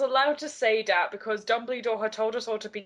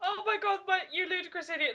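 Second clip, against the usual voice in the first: put-on British accent; 8 semitones higher, 4 dB quieter, faster than usual. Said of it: "the British accent".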